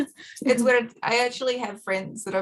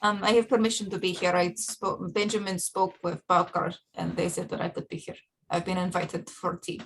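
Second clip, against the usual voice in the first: put-on light Russian accent; a hint of Russian accent, understated. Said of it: "I'm just gonna go Russian".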